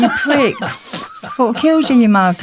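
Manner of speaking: loud laughing yell of fake outrage; mock angry shout. Shouting at the man who faked his death, laughing. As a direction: bellow it half laughing.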